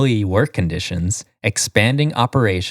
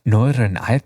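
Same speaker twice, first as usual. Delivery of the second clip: badly faked Northern Irish accent; attempted Northern Irish accent. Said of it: "That was my Northern Ireland accent".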